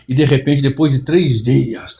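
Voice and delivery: mimicking a preacher's slow, drawn-out drama; theatrical preacher. Mocking other pastors' staged sermon, slow and drawn out. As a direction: stretch it out like a showy pulpit storyteller. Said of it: "toda aquela, aquela encenação ... entonação na voz".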